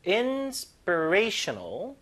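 very slow Inspirational, stress drawn out; stress on the word. Shown as a demonstration. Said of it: "강세 열주세요". (Inspirational 강세 살려 천천히)

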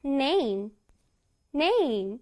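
"name" with a clear long A; "name" pronounced with care on the A; careful A sound. Shown as a demonstration. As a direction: give the A in "name" its full sound. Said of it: "A 소리를 유의해서 다시 한번 발음해 볼게요".

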